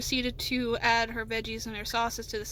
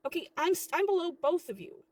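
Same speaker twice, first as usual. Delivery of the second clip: higher, insistent, exasperated; frustrated explanation; 5 semitones higher, 4 dB louder than usual. Acted. Worker tells manager she is below both, exasperated.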